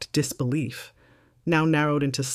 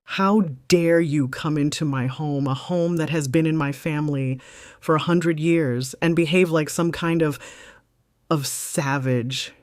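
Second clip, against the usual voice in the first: mild rage. Acted. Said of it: "clipped, and shaking with a rage".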